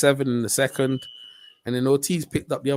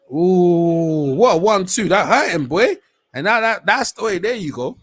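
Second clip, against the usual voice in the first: excited shout; 3 semitones higher, 6 dB louder than usual. Real, not acted. Watching the fighter get hurt, excited yell. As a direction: yell it out like the fight just exploded.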